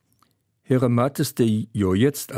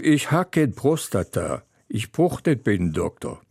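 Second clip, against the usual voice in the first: calling out. Acted. Husband denying the prostate to his wife, calling out. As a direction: protest in a moderately raised voice. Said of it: "Ich rief".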